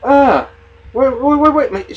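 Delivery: retold protest. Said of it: "And she was like".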